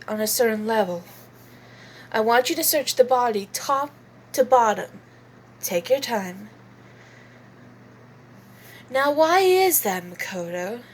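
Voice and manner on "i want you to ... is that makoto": lightly voiced Kyoko. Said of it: "as Kyoko Kirogiri".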